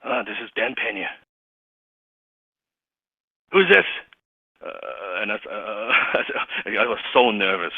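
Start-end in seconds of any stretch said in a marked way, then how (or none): 0.0-3.8 gruff boss voice. Retold or imitated. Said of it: "that voice right there".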